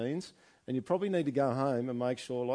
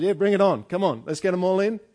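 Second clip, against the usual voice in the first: exaggerated mock-cheerful welcome, higher and louder; mock eager disciples; 6 semitones higher, 11 dB louder than usual. Playing the disciples as wrongly eager, mock cheerful. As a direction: ham up a fake-keen yes before correcting it. No, they said.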